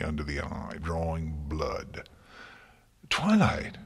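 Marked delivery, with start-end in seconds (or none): 3.1-3.8 high, loud anguished wail; a struck teacher wailing a student's name. A narrator's reading. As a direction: cry out her name in pain. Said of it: "Celestia wailed".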